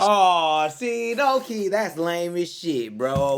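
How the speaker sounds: loud, slow, high outburst of disbelief; loud drawn-out reaction to a lame move; loud outcry. Real, not acted. Reacting loudly to the story.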